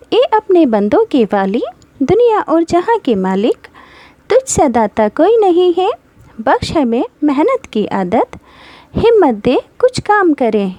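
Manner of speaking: lightly recited prayer poem for pupils; reading a poem. Shown as a demonstration. Teacher reading the poem aloud to her pupils. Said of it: "पढ़कर बताती हूँ".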